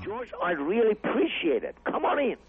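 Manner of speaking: high, bursting with excitement; delighted surprise. Retold or imitated. Jamie thrilled at Carlin's free show, high excited voice. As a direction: squeal with delight at the news.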